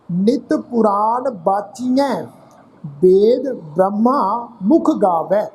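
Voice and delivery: measured, drawn-out reading of Gurbani verse; slow scripture recitation. Shown as a demonstration. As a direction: recite each phrase slowly with pauses. Slow chanted recitation of bani.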